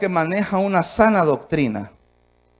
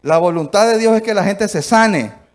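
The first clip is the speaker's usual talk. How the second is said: the same line again, much louder and weightier; louder repeat; 5 dB louder than usual. Shown as a demonstration. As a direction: hammer it home the second time. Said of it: "repeats the line".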